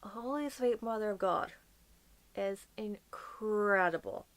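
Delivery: slow hushed whisper of awe; slow reverent whisper; awed whisper. Real, not acted. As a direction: let it out slowly, barely voiced, in wonder. Gushing about actress's voice.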